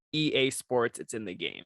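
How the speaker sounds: low sports-game slogan voice; game sports announcer. Shown as a demonstration. Host giving the prompt, slightly deep announcer. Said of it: "Give me your best rendition".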